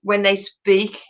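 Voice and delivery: Birmingham accent, talking down through a long tube. Shown as a demonstration. Explaining how Birmingham people speak, demonstrated Birmingham accent. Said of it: "quite a long tube when they speak".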